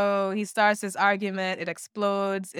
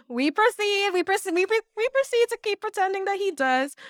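laughing sarcasm; 12 semitones higher than usual. Real, not acted.

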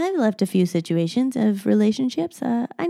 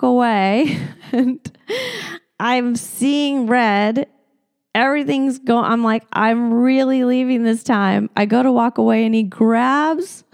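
worked up; 3 semitones higher, 4 dB louder than usual. Real, not acted. Retelling the fight, worked up.

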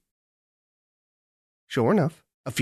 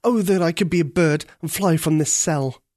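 higher, yearning prince; longing prince; 5 semitones higher, 4 dB louder than usual. Acted. Prince yearning to fly from his cell. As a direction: wish it aloud with longing.

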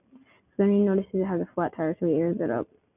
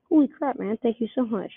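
excited; 4 semitones higher than usual. Acted. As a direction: burst out in delight. Huge raise announced.

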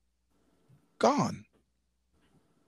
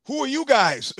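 scared question; 10 semitones higher, 5 dB louder than usual. Pretend. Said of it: "the door opens and goes".

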